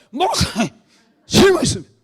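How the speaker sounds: put-on loud, high-pitched drunken shout; hammed-up drunk interrupting at full volume; drunk heckler. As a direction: imitate a drunk calling out from the pews. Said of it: "술 먹은 사람들이".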